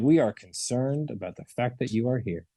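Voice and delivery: mock concerned therapist; solemn, caring counselor; lightly hammed grave concern. Shown as a demonstration. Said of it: "That's a, like".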